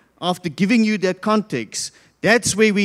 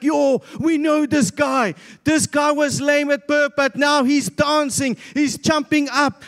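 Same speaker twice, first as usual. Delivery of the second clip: mildly excited, higher-pitched exclaiming; excited crowd; 4 semitones higher than usual. Retold or imitated. Temple crowd reacting to the healed lame man, excited. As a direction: voice an amazed onlooker, pitch lifted. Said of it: "Everybody gets excited because they're like".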